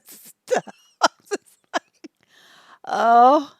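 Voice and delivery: words dissolving into laughter; cracking up. Real, not acted. Host joking about old men's smell, cracking up. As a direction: try to finish the slow phrase through laughs. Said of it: "I'm laughing".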